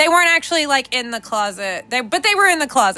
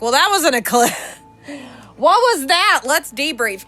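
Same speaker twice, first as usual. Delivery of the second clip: louder, animated late reaction; mock amazed reaction; 4 semitones higher, 5 dB louder than usual. Imagining reacting to the eclipse weeks late, mock amazement. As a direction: play up the belated astonishment. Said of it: "I could talk about the eclipse".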